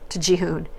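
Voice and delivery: usual speaking voice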